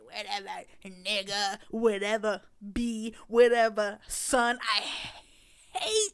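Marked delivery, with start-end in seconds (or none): 0.0-4.6 mock dismissive yelling. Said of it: "you just be like".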